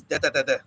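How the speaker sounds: short staccato "da, da, da, da"; choppy mock poem line; clipped nonsense syllables. Shown as a demonstration. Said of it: "Then the next line is".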